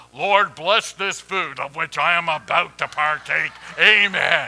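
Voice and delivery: loud grizzly bear voice. Ending a joke, the speaker voices a bear praying over its food, loud grizzly bear voice. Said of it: "prayed in a loud grizzly bear voice".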